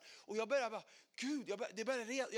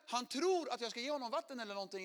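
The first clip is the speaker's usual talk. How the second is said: normal talking voice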